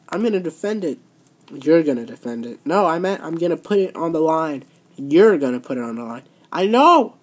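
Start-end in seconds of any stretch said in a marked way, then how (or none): 1.5-2.6 mocking echo. Boss mocks the champion by echoing her words lower. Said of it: "Are you just mocking me?". 4.9-6.2 mocking echo. Boss parrots the champion's words back lower to mock her. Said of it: "Are you just mocking me?".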